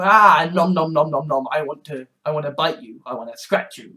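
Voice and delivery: playful biting cat talk; a hint of a cat chewing on you. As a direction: voice the cat nomming and threatening. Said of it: "when my cat Ronikin will just go".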